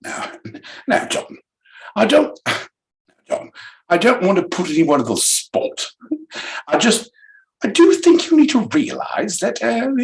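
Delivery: lightly put-on British voice; a hint of British accent. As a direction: try a posh British delivery. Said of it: "in a British accent".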